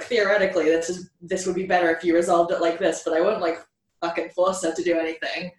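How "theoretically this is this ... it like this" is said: lightly nasal know-it-all nerd; a hint of a nasal geek lecturing. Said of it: "I'll put on my nasal geek voice".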